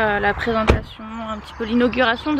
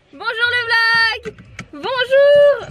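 much higher, slow, sing-song greeting; squeaky cheerful hello; 13 semitones higher, 7 dB louder, much slower than usual. Acted. Greeting her vlog viewers, squeaky high and drawn out. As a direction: stretch the hello up high like a cartoon.

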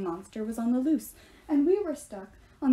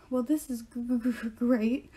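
stammering through chattering teeth, slowed on the stutter; freezing so hard the word breaks apart. A narrator's reading. Talia shivering by the fire in the snow, chattering stammer. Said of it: "Talia's teeth were chattering".

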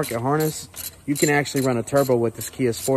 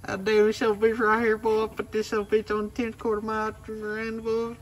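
high put-on redneck voice; 11 semitones higher than usual. Joking in put-on country voice.

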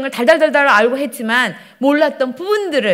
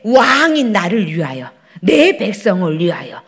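lightly acted arrogant king, slow delivery; King Saul; 5 semitones lower, 4 dB louder than usual. Disobedient king putting himself first, lightly acted arrogance. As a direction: proclaim it slowly with self-importance. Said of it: "교만했잖아요".

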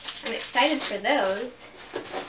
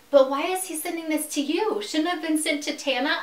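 confused mom; 5 semitones higher than usual. Retold or imitated. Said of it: "She was so confused".

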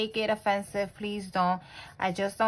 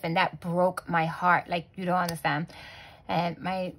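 close to tears; 3 semitones lower than usual. Real, not acted. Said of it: "my voice is cracking up 'cause I'm about to cry".

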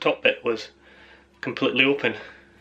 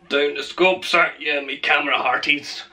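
pirate voice; 3 semitones higher than usual. Pretend. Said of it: "I don't know why I'm talking like a pirate".

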